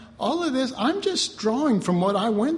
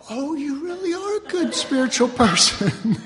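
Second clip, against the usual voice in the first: imagined admirer; 5 semitones higher than usual. Retold or imitated. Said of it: "then they'll go".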